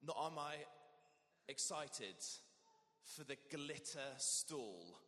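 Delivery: halting, slow, with long pauses; hesitant. Shown as a demonstration. Vicar showing reluctance about the glitter stall, hesitant and slow. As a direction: drag your feet over each phrase. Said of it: "a little bit of hesitation on that one".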